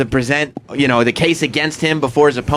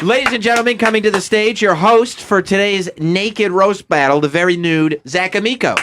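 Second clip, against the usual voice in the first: announcer voice; 4 semitones higher than usual. Pretend. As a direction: introduce the host grandly. Announcing the host on stage.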